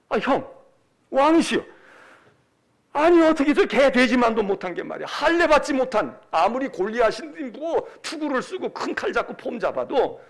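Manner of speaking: acted David, indignant and scornful; righteous indignation. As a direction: protest hotly to brother and king. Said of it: "분을 참지 못하는 거야".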